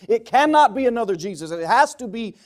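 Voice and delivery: loud, emphatic sermon delivery; forceful preaching. Real, not acted. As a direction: hammer each point home to the congregation.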